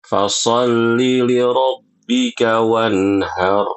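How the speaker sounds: Fasalli li rabbika wanhar chanted slowly with a harsh throaty ha; wrong heavy ha. Shown as a demonstration. Teacher showing a misreading that changes meaning. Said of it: "Bayangkan bagaimana kalau kita baca".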